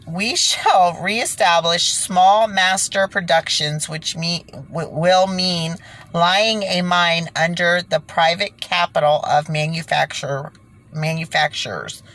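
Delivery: slow, deliberate reading of the passage; measured document reading; careful re-read. Acted. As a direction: read it slowly and evenly this time. Restarted reading of same sentence.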